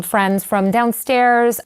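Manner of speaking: high, eager and unsure hello; high-pitched awkward hello to a stranger; nervous greeting. Retold or imitated. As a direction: fake casual brightness at the door. Nervous visitors at the door.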